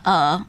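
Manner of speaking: "uh" as in English, lips unrounded; unrounded vowel. Shown as a demonstration. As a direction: say "uh" as a relaxed, open hesitation sound. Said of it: "it's not that, it's o".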